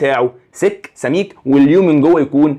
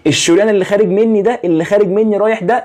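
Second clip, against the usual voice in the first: raised pitch stress on ده, pointing right at it; emphatic pointing out; 6 semitones higher than usual. Real, not acted. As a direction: lean hard on the word ده, higher. Teacher stresses the outgoing artery.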